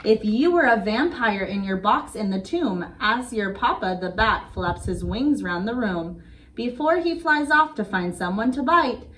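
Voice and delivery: put-on sing-song read-aloud rhythm for kids; bedtime story reading. Reading a bedtime rhyme to little kids, gentle sing-song.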